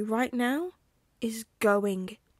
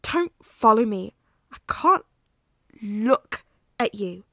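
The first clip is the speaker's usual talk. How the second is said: furious shouting; 3 semitones higher, 8 dB louder than usual. Acted. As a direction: tear into him, then break off. Remus explodes at Sirius.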